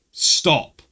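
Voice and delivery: firm, loud one-word command; retelling his own shouted order; retold shout. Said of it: "I was shouting at her now".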